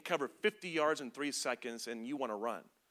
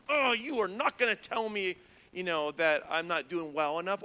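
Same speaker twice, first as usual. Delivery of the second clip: defensive. Retold or imitated. Acted quote of wanting to fight.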